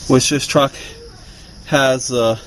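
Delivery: breathless, catching his breath. Real, not acted. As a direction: talk while winded. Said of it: "Sorry guys, I'm out of breath".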